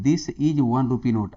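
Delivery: stretched-out question reading; slow reading. Shown as a demonstration. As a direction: read each word out slowly for the class. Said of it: "right wrong pick करना है".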